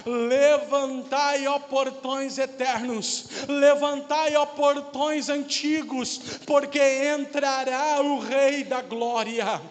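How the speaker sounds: slow, drawn-out summons at the gates; proclaiming angels. Acted. Angels outside heaven calling to the gates, proclaiming. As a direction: call it out broad and stretched, like a herald. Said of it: "e dizendo de fora".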